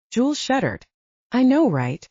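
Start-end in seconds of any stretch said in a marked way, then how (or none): 1.3-2.1 perked up. A narrator's reading. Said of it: "Lennox peppered up".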